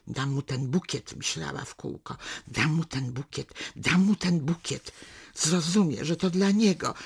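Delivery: measured literary reading, unhurried; story narration. A narrator's reading. Reader narrating a daughter and father's walk, calm storytelling. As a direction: read the novel excerpt to listeners. Reads a novel excerpt aloud.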